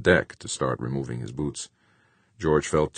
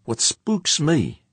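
high, loud, drawn-out character voice; George, spooked spaceman; 13 semitones higher, 6 dB louder, much slower than usual. A narrator's reading. Weary spaceman puzzles over sabotage with crewmate, high character voice. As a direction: push the voice way up, slow and loud.

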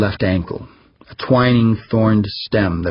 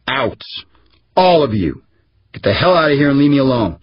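higher and louder, fast at the end; furious shout; 6 semitones higher, 3 dB louder than usual. A narrator's reading. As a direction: throw them all out, roaring. Boss throwing out his aides.

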